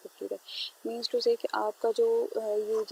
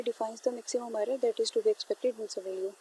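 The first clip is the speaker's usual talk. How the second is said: reads the definition out word by word, very slow; slow slide reading; much slower than usual. Shown as a demonstration. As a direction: dictate it slowly so students can copy it down. (स्लाइड से धीरे-धीरे पढ़ना)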